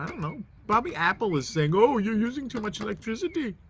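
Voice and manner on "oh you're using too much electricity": lightly voiced, higher mock-official tone; a hint of a stern machine voice; authoritarian voice. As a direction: play a bossy corporate system, half-joking. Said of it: "some sort of authoritarian voice".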